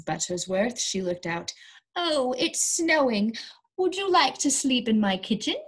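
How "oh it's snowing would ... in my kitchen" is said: kind neighbour. Acted. Kind neighbour offers shelter.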